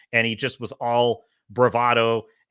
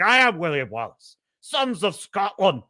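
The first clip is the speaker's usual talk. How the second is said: mock rallying speech; 4 semitones higher than usual. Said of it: "amazing speech where he's like".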